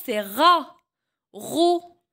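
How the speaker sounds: chaque syllabe en « j » détachée avec soin; syllabes articulées. Shown as a demonstration. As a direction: montre la syllabe, puis une pause. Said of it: "Avec R". (syllabes en « j » dictées au professeur)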